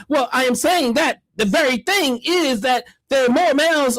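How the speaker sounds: mock-earnest pronouncement; mock philosophizing. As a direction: lightly imitate a pompous philosopher. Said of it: "he was philosophizing".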